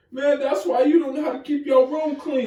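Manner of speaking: high, loud laughing insult; hammed-up family yelling insult; mock yelling clapback. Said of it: "yelling at each other".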